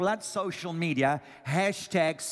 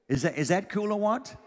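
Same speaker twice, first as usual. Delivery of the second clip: excited shout; 5 semitones higher than usual. Real, not acted. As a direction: fire up the crowd. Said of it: "hyping the congregation".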